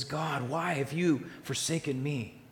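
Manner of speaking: slow, drawn-out plea of abandonment; a preacher lightly voicing Jesus' anguish; desperate plea. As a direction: ask it slowly as a forsaken man would. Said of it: "he cried out desperately".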